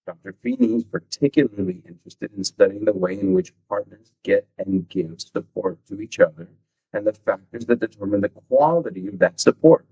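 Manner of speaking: book passage read out with firm emphasis on key words; steady read-aloud delivery. Real, not acted. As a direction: read the study out to listeners.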